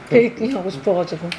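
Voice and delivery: muffled behind hand; talking through fingers while chewing; hand over mouth. Real, not acted. Seen 3: Hand covers mouth while talking, bread held; then bites after.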